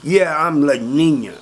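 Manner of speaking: slow, drawn-out answer in character; proud confirmation. Retold or imitated. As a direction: confirm your nickname proudly, stretching the words. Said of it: "He goes".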